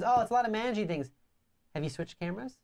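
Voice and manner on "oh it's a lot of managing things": lightly higher, fast mimic of her; mocking imitation. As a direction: parrot her excuse a bit higher and quicker. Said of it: "so she says".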